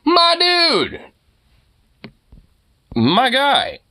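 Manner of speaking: high, put-on voice for the dog's thoughts; dog's inner voice. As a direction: voice the dog protesting. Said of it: "He's like".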